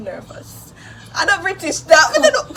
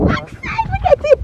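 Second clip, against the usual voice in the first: higher and slow, drawn out; excited exclaim; 6 dB louder, slower than usual. Acted. Showing off a garden plant, drawn out excited. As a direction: stretch it out in delight.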